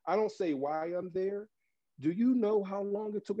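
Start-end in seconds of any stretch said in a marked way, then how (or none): 2.0-3.4 higher teasing greeting. Retold or imitated. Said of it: "That's my hello".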